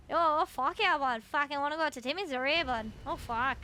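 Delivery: a light hammed-up Canadian accent; fake Canadian. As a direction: play a rowdy Canadian hoser, lightly. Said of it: "do my fake Canadian".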